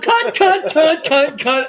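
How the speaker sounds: high-pitched, bouncy repeated taunt; gleeful dancing taunt. Retold or imitated. Friend dancing around an old lady, retold as gleeful taunting. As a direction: imitate someone chanting it while dancing around. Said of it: "dancing around".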